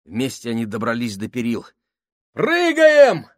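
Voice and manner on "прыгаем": high desperate yell; shouting. A narrator's reading. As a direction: shout the order to jump. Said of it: "закричал Гослинг".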